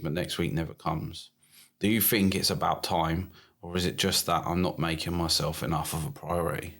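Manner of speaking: low, subdued read-aloud; reading out a message. Acted. Host reads Tom's message to his co-host, low read-aloud.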